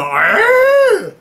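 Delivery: high straining goat grunt; a comic pained goat cry. Retold or imitated. The goat straining in tug of war, high grunt. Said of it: "And the goat would go".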